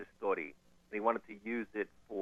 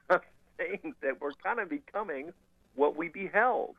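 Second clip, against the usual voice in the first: put-on Russian accent; 6 semitones higher, slower than usual. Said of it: "I like your Russian accent as well".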